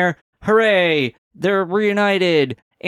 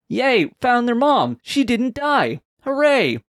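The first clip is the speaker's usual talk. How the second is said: mock cheer; 8 semitones higher, slower than usual. Mock cheer at plot twist.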